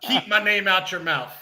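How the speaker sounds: hammed-up tough-guy sign-off; mock threat. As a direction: drive the threat home with a long pause between. Mock beef callout repeated for laughs.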